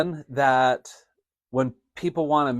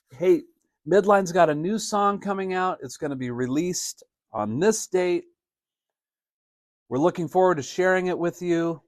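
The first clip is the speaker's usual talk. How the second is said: sincere announcement; 4 semitones higher than usual. Shown as a demonstration. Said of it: "that's a way to say something that's exciting".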